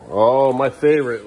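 sarcastic. Acted. Sarcastic about emptying dishwasher.

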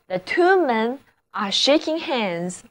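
slow, careful example sentence; slow model reading. Shown as a demonstration. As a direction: read it out slowly for the class. (慢速示范例句)

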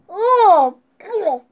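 startled cry at the sour taste; sour shock. Real, not acted. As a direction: react to a sudden sour hit. First taste of sour candy.

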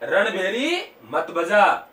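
slow, drawn-out, lightly tuneful plea; mock melodious voice. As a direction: stretch the words in a put-on musical voice. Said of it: "सुरलिया आवाज में कहा". (धीमी, हल्की सुरीली आवाज़ का अभिनय)

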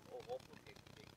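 whispered mock compliment; whispered praise. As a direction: breathe it out like a quoted compliment. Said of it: "เขาก็มาชมผม". (กระซิบชมเลียนแบบ)

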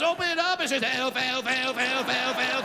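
high, loud, laughing rant; incredulous rant. Real, not acted. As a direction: build the absurd list with rising outrage. Ranting about the elf costume.

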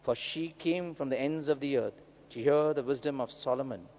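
measured, solemn gospel reading; scripture reading. Real, not acted. Priest reads the gospel aloud.

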